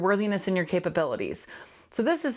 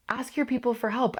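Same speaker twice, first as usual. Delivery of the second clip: higher, stress on your; emphatic advice; 4 semitones higher than usual. Real, not acted. Host to listeners, emphatic higher advice. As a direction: lift it and press it home.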